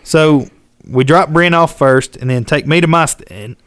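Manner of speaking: ordinary talk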